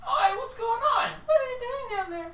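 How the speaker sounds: high, loud calling out from above; high loud shouted question; curious townsfolk. Acted. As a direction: call down to the stranger. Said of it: "they're like".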